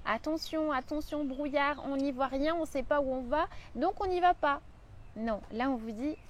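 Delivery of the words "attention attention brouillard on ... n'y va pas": voice of the worried mind. Retold or imitated. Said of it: "Le mental, il va vous dire".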